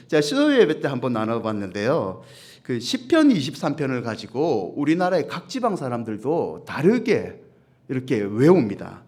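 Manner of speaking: ordinary talk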